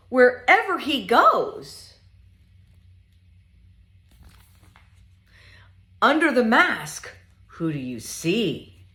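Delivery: lively, sing-song picture book reading; reading to children. Acted. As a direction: read it playfully to little ones.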